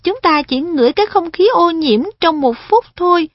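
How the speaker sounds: put-on a polite boy guiding an elder; earnest boy voice. Perrin explains earnestly.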